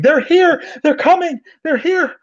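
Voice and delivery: very high, loud panicked screaming. Acted. Captive woman hears robots at the door, high panicked shriek. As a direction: shriek that they're coming. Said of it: "she's now screaming".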